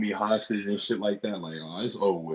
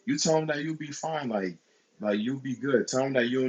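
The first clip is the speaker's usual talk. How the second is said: higher-pitched mock reassurance; lightly put-on lady's voice, pitched up; imitating older woman; 4 semitones higher than usual. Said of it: "And she was like".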